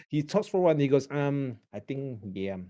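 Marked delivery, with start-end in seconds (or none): 1.1-2.6 soft, halting hemming and hawing; annoying hesitant habit. Shown as a demonstration. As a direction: stall on ums and mms, dropping away quietly. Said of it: "Does he have an annoying habit?".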